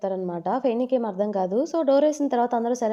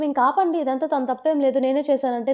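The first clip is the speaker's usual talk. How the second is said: higher and louder, begging them to stop; pleading shout; 4 semitones higher, 4 dB louder than usual. Retold or imitated. Daughter shouting at her family to stop blaming her husband, loud and high.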